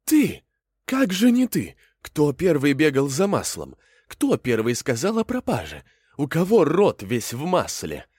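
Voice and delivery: loud, high accusation; judge accusing. Acted. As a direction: pound the charge home like a stern judge. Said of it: "говорит".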